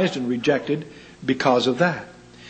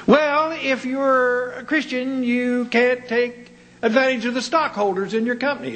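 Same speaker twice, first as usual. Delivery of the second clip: mocking objector; 7 semitones higher than usual. Voicing critics, drawn out.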